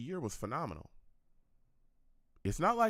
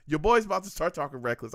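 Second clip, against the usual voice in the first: playful warning; 6 dB louder than usual. Real, not acted. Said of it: "I had to remember I'm on YouTube".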